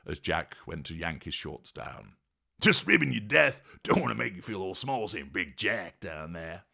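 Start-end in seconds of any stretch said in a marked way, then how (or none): 2.6-6.6 higher, cheeky ribbing; grinning tease. Acted. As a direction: tease him with a big grin. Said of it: "grinned Jack".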